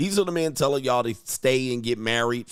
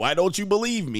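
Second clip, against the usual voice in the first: mock wounded, affronted, offended tone, pitched up; 7 semitones higher than usual. Imitating someone who gets offended when not believed: imitating someone offended. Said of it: "they get offended".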